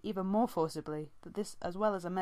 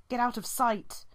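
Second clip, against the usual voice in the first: sharp, high and loud command; urgent warning; 6 semitones higher, 6 dB louder than usual. A narrator's reading. Brambleclaw warning the apprentice to hide, urgent hiss. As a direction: bark at her to hide. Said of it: "he hissed".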